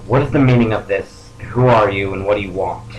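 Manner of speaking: mild in-character yell. Acted. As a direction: call out a challenge without full force. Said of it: "I yell out".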